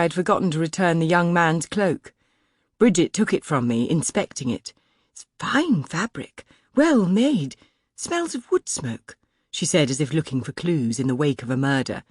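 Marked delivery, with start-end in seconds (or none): 5.1-9.2 much higher, fretting maid, relieved; a flustered servant's high voice; anxious maid. A narrator's reading. Maid Bridget inspecting cloak.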